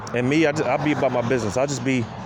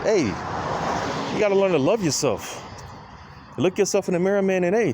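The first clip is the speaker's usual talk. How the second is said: slow, higher, stretched out; drawn-out advice; 7 semitones higher than usual. Retold or imitated. Telling people to love themselves, slow and emphatic. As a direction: lay it out slowly to people. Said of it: "I tell people".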